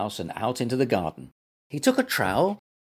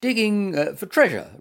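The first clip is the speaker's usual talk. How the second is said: higher, polite, hesitant reply; 8 semitones higher, 4 dB louder than usual. A narrator's reading. Gumper answering the angry gardener, polite. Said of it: "replied Gumper politely".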